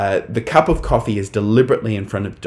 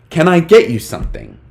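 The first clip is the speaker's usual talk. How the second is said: acted sitcom line; 6 semitones higher, 5 dB louder than usual. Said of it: "this is a quote from the Dick Van Dyke Show".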